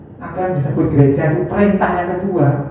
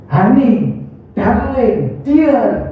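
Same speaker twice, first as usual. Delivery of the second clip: sweet endearments; 2 semitones higher, much slower than usual. Shown as a demonstration. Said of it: "Enak kan didengar kan?".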